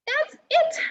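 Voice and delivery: high, loud burst of exasperation; fed-up cry. Acted. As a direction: snap out like a fairy out of patience. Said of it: "she cried".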